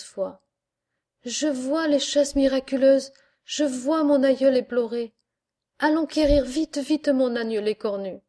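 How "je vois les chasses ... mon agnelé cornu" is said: high, loud outburst of wonder; a child crying out in amazed faith; the healed child cries out to the crowd, high and loud; joyful cry. Acted. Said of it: "soudain cria l'enfantelé".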